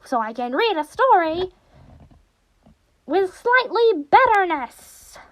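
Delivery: practice the cartoon villain, building to a stretched finish; Monokuma. Shown as a demonstration. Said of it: "continue to do this in this voice".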